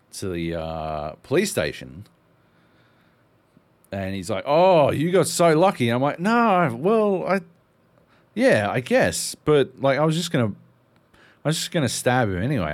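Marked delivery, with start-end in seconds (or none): 4.4-5.9 mate's voice. Retold or imitated. Voicing mate. 6.2-12.7 higher and louder, defensive; hammed-up excuse, speeding up at the end; mock indignant; flustered retold reply.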